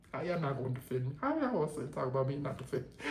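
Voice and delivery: fast, tumbling hurt questions; rushed hurt plea. Retold or imitated. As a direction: rattle off the accusations in a hurt rush. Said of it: "she gets emotional".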